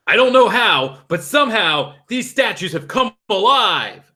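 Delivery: put-on high, alarmed old man; frightened rush of words; panicked. Curator panicking.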